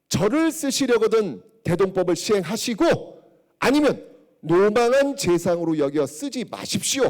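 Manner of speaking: a hint of a firm, loud old statesman's ultimatum; resigning minister. Kim Yuk resigning to the king, a firm ultimatum. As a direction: deliver the ultimatum with conviction. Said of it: "사직상소".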